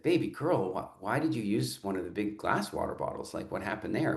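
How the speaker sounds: softly asking a little daughter; calm dad to a small child; very soft and gentle. Retold or imitated. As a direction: ease down into a gentle, tender question. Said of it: "I very softly said".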